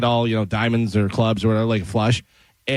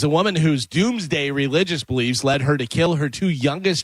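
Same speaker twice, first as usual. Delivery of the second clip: news read; 2 semitones higher than usual. Real, not acted. Reads a news item.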